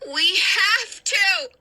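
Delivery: high, slow, urgent insistence; urgent shout. Acted. Hannah pulling Danny through the flames, slow urgent shout. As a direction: drive each word home.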